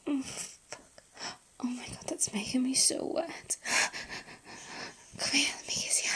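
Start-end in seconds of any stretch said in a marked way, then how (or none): 1.6-6.1 soft intimate whisper; breathy close-mic whisper. Acted. Whispered intimate roleplay throughout.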